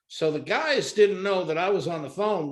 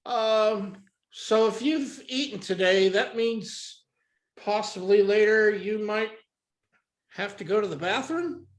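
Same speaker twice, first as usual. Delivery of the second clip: hesitant, higher imitation of an awkward caller; mock-awkward caller with halting pauses; stumbling caller; 4 semitones higher than usual. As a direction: feel your way haltingly into the question. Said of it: "he's stumbling around".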